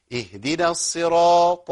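slow, drawn-out Quran recitation; recitation demo. Shown as a demonstration. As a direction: recite it slowly, syllable by syllable. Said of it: "وفي بقى اللي يبدل اللام". (تلاوة متأنية ممدودة)

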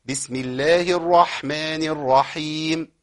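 slow, measured tajweed recitation; correct recitation. Shown as a demonstration. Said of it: "أيوة كده". (تلاوة صحيحة متأنية)

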